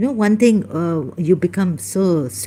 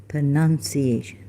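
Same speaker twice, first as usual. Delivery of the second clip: normal talking voice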